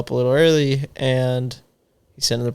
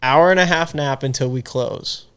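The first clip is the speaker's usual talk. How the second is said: laughing. Real, not acted. Laughing at own story.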